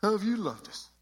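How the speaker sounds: exaggerated punk kid whine. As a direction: throw the question back like a snotty teen. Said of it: "imagine every one of these questions in that kind of a punk voice".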